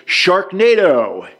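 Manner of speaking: high, drawn-out cry; yelling. A narrator's reading. Camper gives the signal to spin, high stretched yell. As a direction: call it out slowly, pitch up then falling. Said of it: "anytime someone yells".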